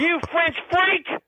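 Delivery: high, drawn-out jeer; outraged insult. Acted. J C insulting the French caller, outraged.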